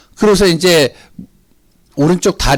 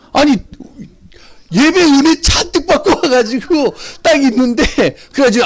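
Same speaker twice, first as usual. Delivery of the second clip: worked-up indignation; 10 semitones higher, 3 dB louder than usual. Retold or imitated. Indignant retelling, voice strained.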